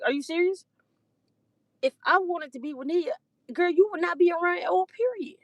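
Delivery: incredulous angry rant, pitch climbing up; exasperated rant. Real, not acted. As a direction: let her have it, voice climbing high. Heated rant at girlfriend.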